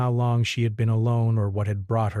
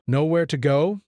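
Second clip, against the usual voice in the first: gentle repeat; 7 semitones higher, 4 dB louder than usual. A narrator's reading. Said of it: "he repeated gently".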